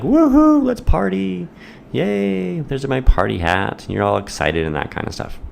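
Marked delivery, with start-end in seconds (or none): 0.0-3.8 mock celebration. Student pretending to party, squealing woohoo up high. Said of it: "You'd be like".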